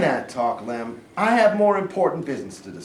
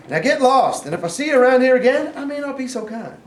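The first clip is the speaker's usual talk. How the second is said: threatening order; 8 semitones higher, 5 dB louder than usual. Acted. Sergeant threatens the runaway prisoner.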